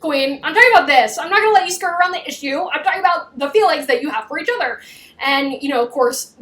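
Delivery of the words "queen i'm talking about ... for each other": fast, pressing imitation; mock insistence. Him refusing to let her skirt the issue, mock insistent. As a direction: pin her down, no dodging.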